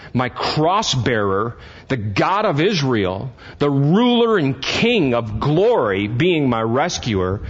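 slow emphatic preaching. Real, not acted.

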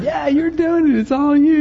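high-pitched, whooping encouragement; excited cheering. Retold or imitated. Dad cheering on his son's first ride, excited.

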